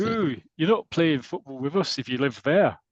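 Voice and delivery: hammed-up Scottish accent, drawn out. Schoolkid warning off the newcomer, slow mock Scottish accent. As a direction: play a wary Scot, slowly. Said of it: "That's the Scottish accent".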